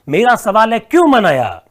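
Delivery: loud, pressing teacher question; emphatic question. Real, not acted. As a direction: push the question hard at the class. Teacher presses his key question.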